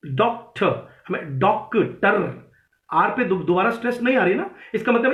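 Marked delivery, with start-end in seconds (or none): 0.1-2.5 डॉक्टर with DOC stressed, second syllable unstressed and falling; stress on first syllable. Shown as a demonstration. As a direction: hit DOC in डॉक्टर, let the ending drop. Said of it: "जो stress आ रही है, उसके बाद unstress". (डॉक्टर के पहले syllable पर ज़ोर)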